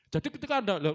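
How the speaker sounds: ordinary delivery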